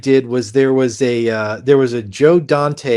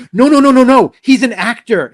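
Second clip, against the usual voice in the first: urgent PA correcting; 10 semitones higher, 6 dB louder than usual. Retold or imitated. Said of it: "She says".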